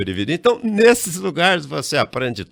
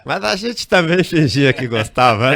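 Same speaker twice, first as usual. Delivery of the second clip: laughing through the words; chuckling confession; 3 semitones higher, 5 dB louder than usual. Real, not acted. Laughing admission of faked affection.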